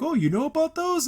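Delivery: high, mock surprised henchman voice. Recapping the henchman surprised she knows, high mock voice. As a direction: play the dumb henchman caught off guard.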